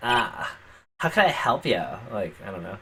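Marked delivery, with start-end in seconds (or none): 0.0-1.8 put-on cheerier, brighter Valley Girl voice, slower. Redoing a Valley Girl voice line, this time a little cheerier. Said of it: "I guess I can just be a little cheerier".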